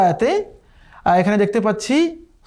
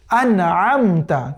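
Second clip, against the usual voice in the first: আনআমতা drawn out slowly; slow recitation; 2 semitones lower, much slower than usual. Shown as a demonstration. Teacher repeating for students, slow chant. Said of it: "আমি আবারও পড়ছি".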